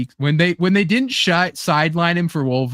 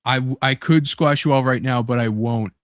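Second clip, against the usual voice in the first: Magneto quote; 4 semitones lower than usual. Retold or imitated. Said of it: "and he's like".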